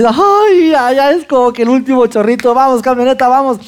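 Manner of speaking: a high, strained plea urging the truck on; a half-joking desperate cheer for the truck; pleading with the truck. Retold or imitated. Urging the truck up the last hill.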